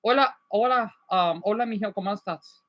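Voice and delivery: Spanish accent. Shown as a demonstration. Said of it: "it depends on the mood".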